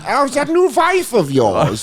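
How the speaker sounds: high, slow sinister purr; mock menacing dictator. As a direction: threaten sweetly and slowly. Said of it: "He goes".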